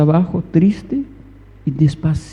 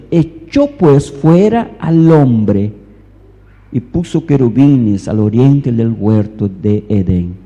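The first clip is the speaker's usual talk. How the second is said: forceful scripture reading; 4 semitones lower, 4 dB louder than usual. Real, not acted. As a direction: proclaim each phrase deliberately to the congregation. Reads scripture aloud forcefully.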